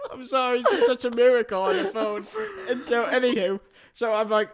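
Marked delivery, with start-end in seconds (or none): 0.1-2.3 mock emotional. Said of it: "It was real emotional".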